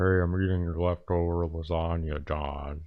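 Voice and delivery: very deep, low voice sunk right down. Joking about a roommate named Man Garfield, in a deep Garfield voice. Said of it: "he has a very deep voice".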